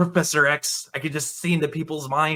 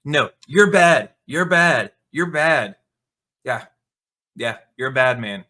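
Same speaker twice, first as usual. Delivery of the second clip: put-on slow, much louder childish chant; mock childish yelling; 6 dB louder than usual. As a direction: yell it like a petulant kid. Mocking Aang scolding people.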